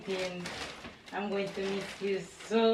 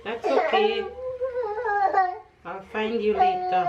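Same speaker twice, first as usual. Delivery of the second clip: crying; 12 semitones higher, 10 dB louder than usual. Real, not acted. Crying while saying goodbye.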